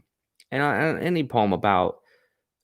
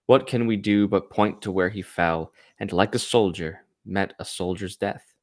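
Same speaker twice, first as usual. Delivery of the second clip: measured, grave recitation of an elegy; solemn poem reading. Acted. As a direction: read it like a eulogy for a fallen soldier. Reads the poem aloud.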